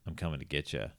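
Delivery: low, quiet menacing voice; creepy low vampire. Retold or imitated. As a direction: taunt her softly from the dark. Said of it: "he's like".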